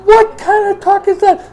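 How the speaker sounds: mock-scandalized father; shocked dad. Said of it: "I said".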